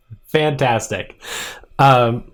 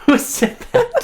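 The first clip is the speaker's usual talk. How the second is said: much higher, squeaky ghost voice; squeaky mystery voice. Acted. A disembodied voice asking the room, squeaky and high. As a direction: squeak it out like a phantom.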